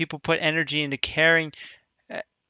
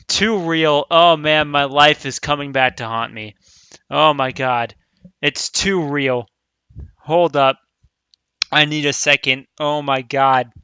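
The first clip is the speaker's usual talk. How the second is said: overwhelmed; 5 dB louder than usual. Real, not acted. Overwhelmed reaction to the scene.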